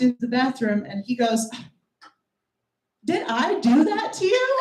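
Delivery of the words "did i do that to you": mock dumb guy. Guy retold, high mock voice.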